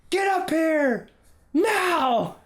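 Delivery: very high, loud barked command; furious order. Retold or imitated. Angry father shouting at son to come home, high barked command. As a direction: order him up the hill now.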